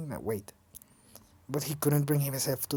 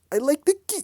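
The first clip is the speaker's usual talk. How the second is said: German accent attempt, "the" stressed, higher; 12 semitones higher, 4 dB louder than usual. Kurt speaking of the boy, shaky German accent try. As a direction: another go at "I like the kid" in German accent. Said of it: "I can't do a German accent".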